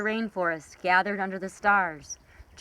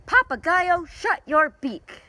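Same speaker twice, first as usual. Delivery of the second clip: higher, louder, slow furious yell; angry scream; 11 semitones higher, 6 dB louder than usual. Acted. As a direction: shout him down in anger. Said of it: "get so angry and scream".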